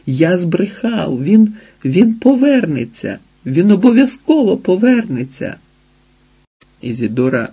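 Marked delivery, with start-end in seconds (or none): 0.1-5.6 high, rising, cracking plea; begging her to stop, voice climbing; desperate plea. A narrator's reading. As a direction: fling the confession after her, higher and higher. Desperate confession shouted after her.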